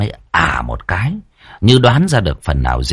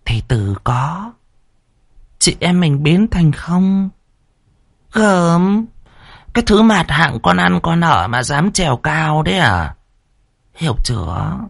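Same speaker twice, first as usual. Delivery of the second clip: teeth gritted; 7 semitones higher than usual. Acted. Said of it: "nghiến răng trèo trèo".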